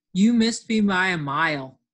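loud playground squabble, read aloud; loudly. Acted. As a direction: protest it loudly. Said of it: "said Alf loudly".

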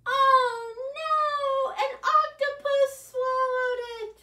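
high, loud mock-alarmed oh no; dramatic oh no. Shown as a demonstration. Librarian acts shocked for children in the song, high and loud. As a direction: gasp it out in playful alarm for the kids. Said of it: "the part where we go, "Oh no".

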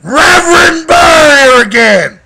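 big booming preacher-style shout, drawn out; loud stretched-out opening holler; botched showman intro. Acted. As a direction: belt the intro like a revival preacher. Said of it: "Yeah, no, I fucked that up".

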